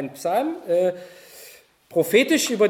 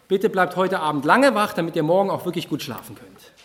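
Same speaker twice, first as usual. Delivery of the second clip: mock-serious request, louder; ironic; 3 dB louder than usual. Shown as a demonstration. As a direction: pretend to mean it while meaning the opposite. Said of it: "wozu dient Ironie?".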